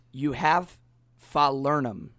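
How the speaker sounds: mock Barbadian bartender voice, punchline of the joke; Caribbean accent. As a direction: lightly imitate the old Barbadian bartender's accent. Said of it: "But in the accent, he says".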